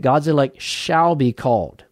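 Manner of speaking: "shall" leaned on within the flowing statement; stress on shall. Real, not acted. Preacher restating what the church believes, "shall" emphasized. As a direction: give "shall" firm weight before "be called". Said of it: "I emphasize that word".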